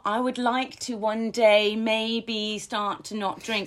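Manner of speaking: hesitant, noncommittal example of what not to write; wishy-washy wishing. Shown as a demonstration. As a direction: drag it out like a vague someday wish. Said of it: "So it becomes wishy-washy".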